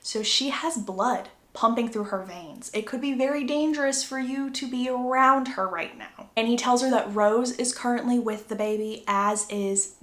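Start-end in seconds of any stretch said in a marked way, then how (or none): 0.0-6.3 soft, careful warning, voice kept down; quietly cautioning a new vampire wife; hushed caution. Retold or imitated. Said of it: "He says".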